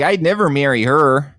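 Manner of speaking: mock Minnesota accent on a contestant's quote. Friend mocks a Chicago contestant, in a light Minnesota accent. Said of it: "That was a Minnesota accent".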